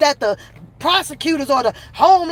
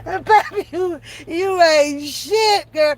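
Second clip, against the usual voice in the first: slow drawn-out chat insult; 2 semitones higher, much slower than usual. Shown as a demonstration. Streamer reading a teasing viewer comment, slow and amused. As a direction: stretch each word, teasing. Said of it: "Y'all can type".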